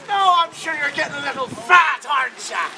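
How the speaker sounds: Grandma Rose. Acted. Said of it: "She goes".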